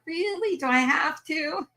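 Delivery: very high, laughing whine; mock whine. Mom whining back at her daughter, very high and laughing. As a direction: whine like a kid told no. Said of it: "I'm like".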